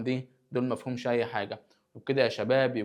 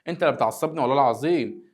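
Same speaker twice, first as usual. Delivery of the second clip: mock exasperation; 6 dB louder than usual. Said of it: "أنا مش هتعصب".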